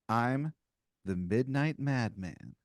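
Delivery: slow, lightly played ominous introduction; mysterious intruder. Mysterious figure announcing himself to a player, lightly ominous. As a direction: draw out the title with slight theatrical menace.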